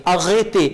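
"arrêtez" with the marked e said as "ay"; accented e as "ay". Shown as a demonstration. Teacher explaining the accent mark, "arrêtez" said with an "ay" sound. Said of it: "आप वही ए pronounce करेंगे".

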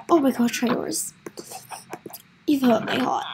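hushed, heartbroken mourning, fading to nearly nothing; mock crying. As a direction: let grief sink low and fade away. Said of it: "I'm actually crying".

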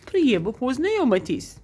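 "Priemno poznayomitis" copied from the app; echoing "Priemno poznayomitis" like the recording; imitating the app voice. Vlogger copies the app's pronunciation. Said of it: "That's how she says it".

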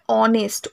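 "অনেস্ট" starting on an O sound; "অনেস্ট" opening straight on the vowel, no H; silent H. Shown as a demonstration. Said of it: "আমাদের উচ্চারণ কি হয়".

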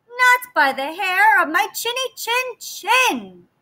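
high, sweet piglet voice; little pig voice. Acted. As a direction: ask politely like a small pig. Pig refuses the wolf.

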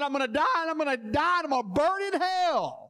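dying patient crying out his fear of hell; tearful panic. Retold or imitated. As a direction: rush it out like a dying man in terror. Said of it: "the guy had tears rolling out of his eyes".

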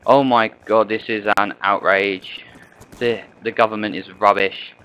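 half-hearted yell at the television; mock screaming at the TV. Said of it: "you're screaming your head off at it".

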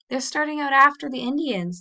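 sudden dread at what she sees; urgent, anxious realization; alarmed. A narrator's reading. Girl's alarmed thought in story.

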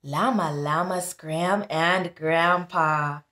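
put-on sing-song read-aloud for kids; storybook reading. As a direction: read it like a bedtime rhyme. Reading picture book aloud.

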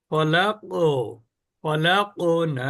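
ফলাক with a bouncing echo on the ক; slow, let the ক of ফলাক spring back up; drawn-out qalqala on ফলাক; qalqala bounce. Shown as a demonstration. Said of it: "যেমন আমি যদি বলি এটা".

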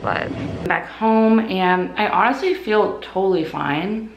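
talking through mouth gauze; words muffled by gauze. Real, not acted. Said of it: "so it's really hard to talk".

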